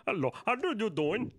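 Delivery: badly faked Canadian accent; clumsy put-on Canadian accent; attempted Canadian accent. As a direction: fumble a Canadian hello. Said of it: "I was trying to do Canadian".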